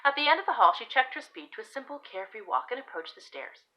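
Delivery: expressive period-romance narration; story narration. Acted. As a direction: read the tale aloud with emphatic key words. Reads own story aloud.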